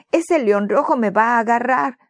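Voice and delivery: put-on mildly frightened child; scared stammer. Boy tells his father the lion is coming, mildly scared. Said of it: "tartamudeó el niño temeroso".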